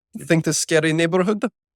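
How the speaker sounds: loud, high, broad put-on Russian accent. Friends trying out accents, one doing a Russian accent.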